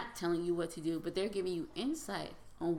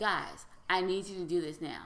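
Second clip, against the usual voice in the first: acted-out, re-enacted raised voice. Recounting asking the kids a third time, retelling a raised voice. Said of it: "So then I raised my voice".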